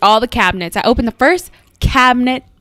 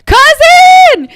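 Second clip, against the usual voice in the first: high, loud yell; yelling for cousin; 7 dB louder than usual. Retold or imitated. Calling the cousin after spotting the rat, loud high yell. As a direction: shout across the house for help. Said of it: "I yelled my cousin's names".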